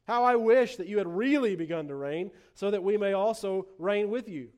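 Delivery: a touch of mock wistfulness; understated sarcasm with a push on the wish; sarcastic. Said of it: "the sarcasm really begins in verse eight".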